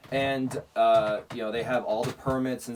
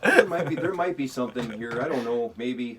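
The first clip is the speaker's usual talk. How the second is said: put-on Canadian accent; 3 dB louder than usual. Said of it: "my Canadian accent".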